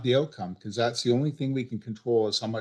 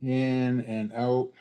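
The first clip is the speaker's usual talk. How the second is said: calm breathing cue; much slower than usual. Shown as a demonstration. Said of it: "let's take a couple of breaths".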